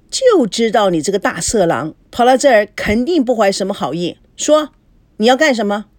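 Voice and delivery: mock-angry, accusing demand; scolding. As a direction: scold your man and demand answers. Wife scolds her cheating man.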